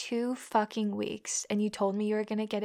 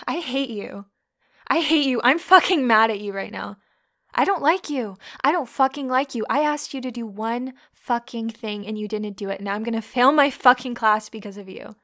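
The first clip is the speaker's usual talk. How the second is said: angry rant; 6 dB louder than usual. Acted. Angry scolding at him.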